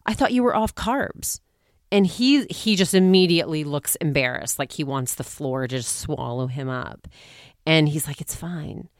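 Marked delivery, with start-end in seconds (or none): 0.0-1.4 higher, pointed reproach; mock scolding wife. Wife scolds husband at dinner. 8.2-8.9 much softer, small embarrassed voice; embarrassed mumble. Retold or imitated. Embarrassed husband answers.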